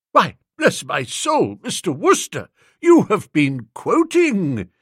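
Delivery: mild surprise in a lightly put-on elderly voice; lightly voiced old lord. A narrator's reading. Old Bittlesham catching Wooster quoting, lightly voiced old man.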